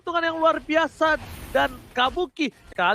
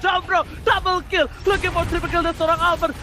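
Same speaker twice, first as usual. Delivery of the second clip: fighting game announcer; 4 semitones higher than usual. Real, not acted. Hype call of a double kill.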